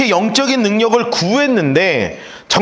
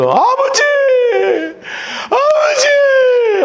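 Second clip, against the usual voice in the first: high wailing cry, much higher, stretched; crying out father; much slower than usual. Retold or imitated. Elisha crying out to his master carried up. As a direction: wail for the father as he vanishes. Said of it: "소리 지르면서".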